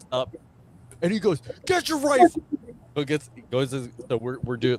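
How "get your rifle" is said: very high, commanding scream at top of lungs. Retelling how the company commander woke a recruit: imitating a commander screaming. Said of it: "would scream at the top of his lungs".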